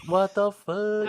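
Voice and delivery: high, loud, slow cry of shock; stunned disbelief. Retold or imitated. Audience reacting to the twist, a high loud stunned cry. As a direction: let the shock burst out high. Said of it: "And we were like".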